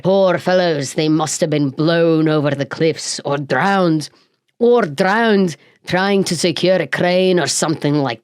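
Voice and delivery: put-on a light rough sea-captain accent, read aloud; lightly voiced old sea captain; hammed-up sailor accent; pirate-ish accent. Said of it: "I did do it in the accent".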